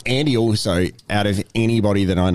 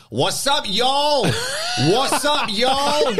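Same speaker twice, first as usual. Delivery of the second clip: put-on drunken shout; much slower than usual. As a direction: call out drunk across the street. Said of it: "all I heard just coming up the street was this".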